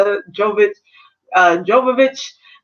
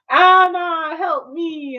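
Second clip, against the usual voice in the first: mock desperate plea; 5 semitones higher, much slower than usual. Elsa calling out while frozen.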